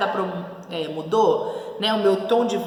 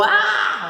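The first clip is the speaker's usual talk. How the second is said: long, loud demonstrated ah; acted outburst of annoyance; angry exclamation; 12 semitones higher, 5 dB louder than usual. Shown as a demonstration. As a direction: let out a drawn-out angry ah. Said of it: "Se eu tô brava".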